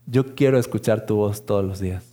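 calm, low divine echo of the prayer; God answering. Retold or imitated. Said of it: "Y él me dijo".

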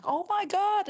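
high gasped oh my God; stunned exclamation at the offer; retold shock. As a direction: let it fly up in disbelief.

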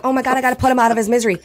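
rushed, fast panicky self-quote; blurting it out in a hurry; frantic retold panic. Telling friends how she panicked over the possum, rushed. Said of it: "I was like".

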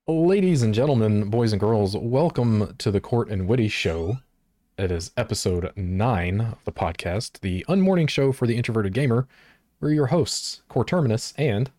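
announcer intro voice, pushed up; host the show like a radio DJ. Acted. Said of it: "You got the radio voice".

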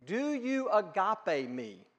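slow, gentle voicing of Jesus asking; a hint of Jesus pleading; lightly voiced Jesus. Jesus asking Peter about his love, slow and gentle. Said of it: "the word that Jesus uses there is".

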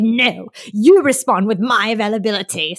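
imitated accent of her friend; Deanna accent. Friend imitates the host refusing to share scheduling, in host's accent. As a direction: put on your friend's accent, firmly. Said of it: "that was a really good Deanna accent".

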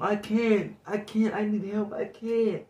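high, loud, slow plea for help; imitated drunk girl. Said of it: "this drunk girl".

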